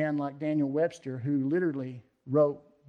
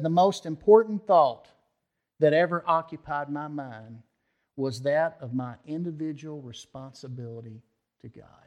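a little louder, clear declaration; 4 dB louder than usual. Retold or imitated. Webster answering the dinner guests, loudly and clearly. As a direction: announce it to the whole table. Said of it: "he spoke up loudly and clearly".

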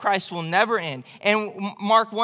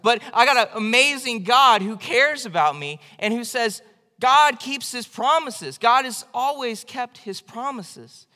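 louder, higher, slowing into "God keeps his promises"; exultant praise; 4 semitones higher, 4 dB louder than usual. Acted. Preacher rejoicing over God's faithfulness, loud and exultant. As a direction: proclaim it with joy. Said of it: "exultant praise of God".

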